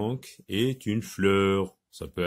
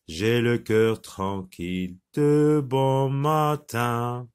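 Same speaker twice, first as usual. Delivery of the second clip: poem recitation. Shown as a demonstration. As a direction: recite it evenly for children to repeat, drawing out each syllable. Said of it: "Alors on recommence".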